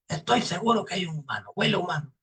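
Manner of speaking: mildly hammed-up devil grumble; grumbling devil. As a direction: insist like a suspicious devil. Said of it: "todo furioso, refunfuñando".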